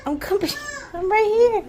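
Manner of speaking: sing-song calling to her chickens. Real, not acted. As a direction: call across the yard.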